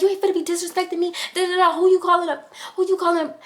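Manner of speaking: high, fast, hitting him and yelling; going up. Retold or imitated. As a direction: fight him while yelling. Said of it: "I'm just going up".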